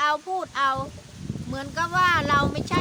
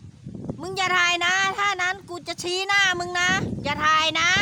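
slow, higher, louder warning shout; retold shout; 5 semitones higher, 3 dB louder than usual. Official yelling at YouTuber not to film, angry shout. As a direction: mimic a man yelling at a filmer to stop. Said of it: "เสียงตะโกนมาว่า".

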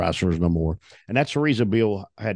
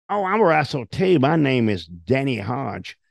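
much higher, sing-song fake friendliness; mock friendly reply; 5 semitones higher than usual. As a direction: play it sweetly innocent before the trap. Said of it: "and he says".

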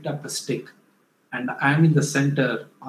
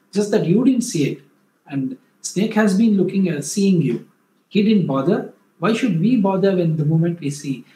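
louder and higher, pressing his case; raised, insistent reasoning with the angry cleaner; heated argument; 4 semitones higher, 5 dB louder than usual. Retold or imitated. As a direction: argue it out loud to win him over. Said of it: "I said".

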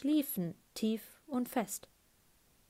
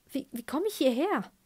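mock confusion; 5 semitones higher than usual. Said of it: "Darbietung des ahnungslosen Erwachenden".

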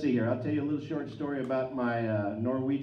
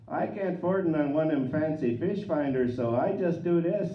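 North Dakota uncle; 3 semitones higher than usual. Retold or imitated. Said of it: "he's got that North Dakota kinda accent".

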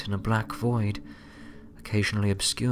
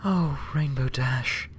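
relieved exclaim; 6 semitones higher, 3 dB quieter than usual. A narrator's reading. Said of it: "Twilight exclaimed".

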